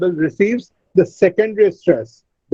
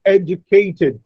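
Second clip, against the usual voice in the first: "Educated" said ED-ucated; first-syllable stress; slower than usual. Shown as a demonstration. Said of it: "A is stressed".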